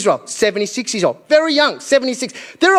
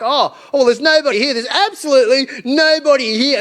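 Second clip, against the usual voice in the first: higher-pitched, feigned surprise at empty land; put-on innocent discovery; mock-oblivious colonizers; 5 semitones higher than usual. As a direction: play a colonizer acting as if nobody's there. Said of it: "colonizers just rocked up, were like".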